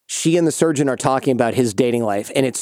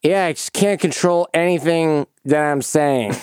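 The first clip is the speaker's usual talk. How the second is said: slow, woozy laughing-gas drawl; loopy; 3 semitones higher than usual. Retold or imitated. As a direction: act out losing control of your speech. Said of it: "are you feeling loopy".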